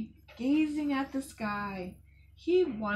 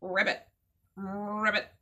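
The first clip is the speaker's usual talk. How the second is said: frog ribbit. Pretend. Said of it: "Can we all be frogs?".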